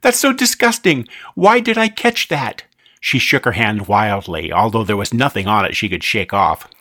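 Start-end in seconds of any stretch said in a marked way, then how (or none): 0.0-2.6 disgusted. Acted. Amy disgusted by skull piece.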